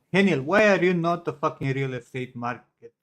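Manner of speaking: mock Indian accent. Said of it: "Indian accent".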